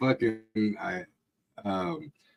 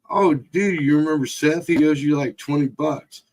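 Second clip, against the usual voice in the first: higher-pitched imitation of a goading friend; retold goading; 7 semitones higher than usual. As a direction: put on a high voice to wind him up. Retelling Chris baiting the brother-in-law.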